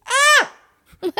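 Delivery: sharp high cry of shock; startled high yelp. Retold or imitated. Patient as the chiropractor jerks her head, high yelp. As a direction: yelp high as the neck is cracked. Neck cracked suddenly, she cries out.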